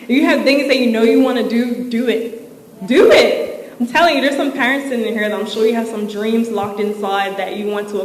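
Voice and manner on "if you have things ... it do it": rallying call. Real, not acted. Urging the room to act.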